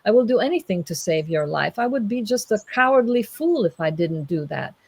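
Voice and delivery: high-pitched eager bravado, easing toward the end; enthusiastic young man. Acted. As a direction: gush like a keen young knight volunteering. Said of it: "being the enthusiastic young man".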